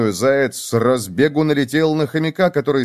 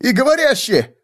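very high startled squeal; horrified; 12 semitones higher than usual. A narrator's reading. Hare finding that the dummy talks, horrified. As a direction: squeal it in alarm.

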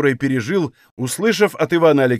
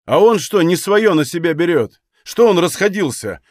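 higher, louder defensive protest; embarrassed self-justification; 4 semitones higher, 3 dB louder than usual. Acted. Григорий excusing his temper to his comrades, defensive. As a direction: justify yourself, put on the defensive. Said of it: "оправдывался Григорий не без смущения".

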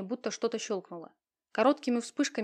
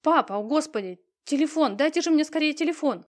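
loud, higher, urgent plea; frantic demand; 6 semitones higher, 6 dB louder than usual. A narrator's reading. Victoria begs police for a phone, loud and frantic. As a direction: grab for the phone in panic.

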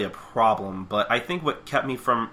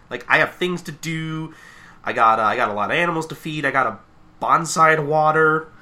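lightly higher, nervous excuse-making; timid Fluttershy; 4 semitones higher than usual. Retold or imitated. Fluttershy dodging the trip, lightly voiced nervous excuses. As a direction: wriggle out of it with flustered excuses. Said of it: "being all like".

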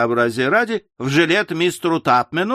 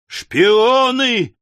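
high, drawn-out accusing yell; raised, high-pitched mob shout; 8 semitones higher, 4 dB louder than usual. A narrator's reading. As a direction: cry it out like an angry crowd. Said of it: "орала толпа".

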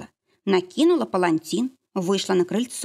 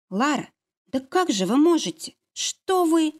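shocked disbelief; 8 semitones higher than usual. Acted. Nastya shocked at Lara.

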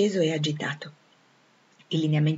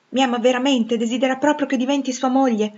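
incredulous hope; 6 semitones higher, 5 dB louder than usual. Acted. Jane asks if he means it.

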